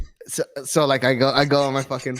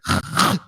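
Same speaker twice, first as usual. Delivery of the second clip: mock sleeper's snort on the in-breath; sharp imitated intake of breath. Husband mimics wife snapping out of sleep, imitated snort. Imitates wife's snore breaking off.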